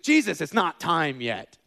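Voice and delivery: slow emphatic plea. Retold or imitated. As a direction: beg Jesus to wait. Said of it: "It's like".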